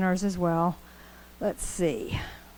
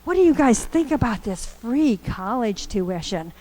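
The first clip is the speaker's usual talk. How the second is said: energetic teacher voice; 3 semitones higher than usual. Retold or imitated. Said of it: "He's like".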